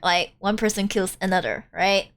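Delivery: put-on Valley Girl accent. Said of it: "I get to use my Valley Girl accent".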